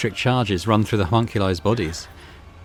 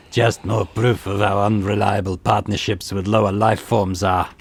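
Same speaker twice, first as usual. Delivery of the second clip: mild scornful grumble, a touch slower; lightly voiced bitter homunculus; scoffing mutter; slower than usual. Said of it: "scoffs and mutters through his teeth".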